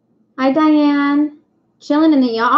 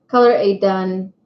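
tongue slip; 4 semitones lower than usual. Real, not acted. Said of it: "Wow, I can talk".

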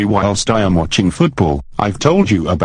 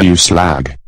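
shouting; 3 semitones lower, 4 dB louder than usual. Acted. Bullying husband shouts insult.

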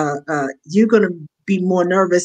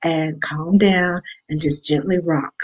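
calming grandpa. Retold or imitated. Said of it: "I'm like".

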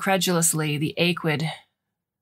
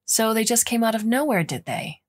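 yelled; 5 semitones higher than usual. Acted. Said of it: "the forewoman yelled".

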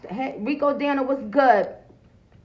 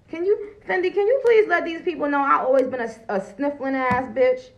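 higher and louder, fast, hammed-up indignation; mock outraged call-out; 5 semitones higher, 5 dB louder than usual. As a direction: call out to Fendi in playful fake outrage. Calling out to Fendi, mock outrage.

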